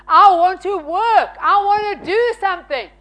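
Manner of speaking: keen, punchy protest; retold insistence. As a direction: insist on being given a job. Retold insistent plea to husband.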